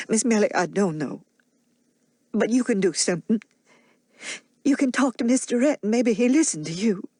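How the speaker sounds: put-on an old nurse pouring out her worry in broad Southern dialect; a lightly voiced Mammy, troubled and earnest; Mammy's dialect voice. Mammy urges Melly to go.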